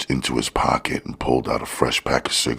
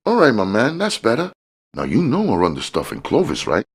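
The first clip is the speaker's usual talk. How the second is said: a much higher voice for the smiling fat man; George's voice; 12 semitones higher, faster than usual. A narrator's reading. The dealer sizing up Curtis, high sly hustler voice.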